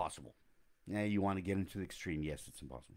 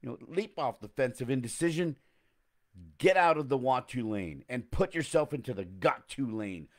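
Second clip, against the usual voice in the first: sassy, punchy, louder with a put-on accent; with attitude and an accent; 6 semitones higher, 8 dB louder than usual. Shown as a demonstration. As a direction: sell it like you own the stage. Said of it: "That was kinda like I had an accent".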